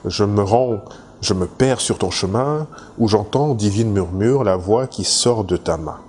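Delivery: measured poetry reading with pauses between lines; poem recitation. Acted. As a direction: recite it line by line, lightly declaimed. Reads out a poem extract. (récitation de poème, posée, vers par vers)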